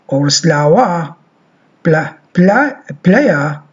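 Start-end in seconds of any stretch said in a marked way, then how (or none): 3.0-3.6 playa said as pleja; model word. Shown as a demonstration. Teacher drills playa for the class. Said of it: "as we say playa".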